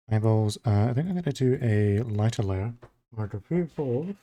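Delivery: talking around a pen in mouth; words muffled by a pen between teeth. Real, not acted. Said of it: "Sorry, I gotta not talk with my pen in my mouth".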